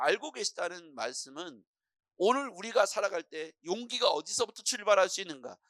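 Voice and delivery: ordinary delivery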